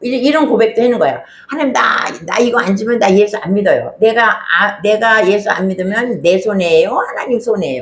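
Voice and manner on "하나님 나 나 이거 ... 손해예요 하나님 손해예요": acted, strong-arming, bullying, threatening tone. Acting out a childish believer's prayer that pressures God: imitating someone bullying and threatening God. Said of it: "하나님을 막 윽박지르고 막 협박하면서".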